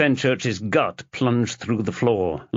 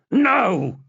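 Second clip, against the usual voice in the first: high, loud shouted no; girl cutting off her father; 13 semitones higher, 4 dB louder than usual. Acted. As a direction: slam it shut. Chloe cuts off Robert.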